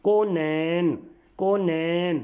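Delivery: "کونین" as kau-nain, two drawn-out syllables; careful pronunciation. Shown as a demonstration. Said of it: "نون پر بھی جزم آئے گی".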